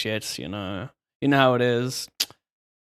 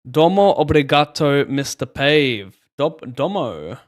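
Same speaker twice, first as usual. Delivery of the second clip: Japanese-style accent; 3 dB louder than usual. Shown as a demonstration. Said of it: "funniest accent".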